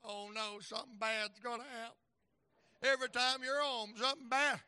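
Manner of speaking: wife teasing her husband about being home, mock worried. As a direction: mimic her playful worry. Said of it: "Here's what she said".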